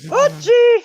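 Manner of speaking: high loud call. Acted. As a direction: call out high across the bush. Calling out loudly.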